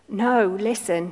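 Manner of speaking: slow, gentle plea; pleading. Acted. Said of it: "he pleaded".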